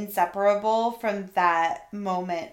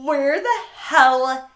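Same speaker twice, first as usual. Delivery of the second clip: mock bewilderment; 4 semitones higher, 5 dB louder, slower than usual. Storyteller relives her first morning there, bewildered. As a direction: drag it out in acted disbelief. Retold confusion at bizarre morning sight.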